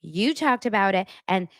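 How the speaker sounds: a hint of outraged pushback; mock upset Lisa. Recapper imitating Lisa's indignant denial to Whitney. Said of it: "Lisa was like".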